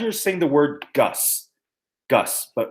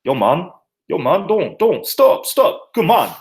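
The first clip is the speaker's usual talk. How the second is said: mock protest; 3 semitones higher, 3 dB louder than usual. Acting out telling someone to stop.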